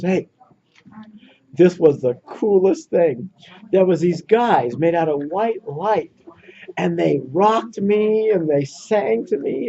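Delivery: lightly voiced wonderstruck child, words stretched out; a hint of an awed child, lingering on each phrase; ten-year-old kid. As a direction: retell it like a kid sharing the coolest thing. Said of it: "the ten-year-old kid, raises his hand and goes".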